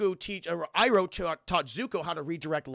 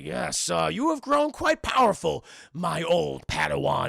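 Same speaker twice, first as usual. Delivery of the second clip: Yoda voice; 3 dB louder, slower than usual. Retold or imitated.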